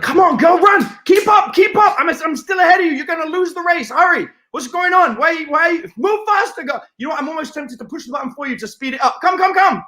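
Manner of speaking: high-pitched, mock-urgent coaching shouts; playful goading. Man teasing a woman racing him on a treadmill, playful goading. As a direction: hurry her along like a hammed-up trainer.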